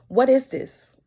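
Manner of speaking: mock the doctor's shock at the sight; a doctor's loud startled outburst.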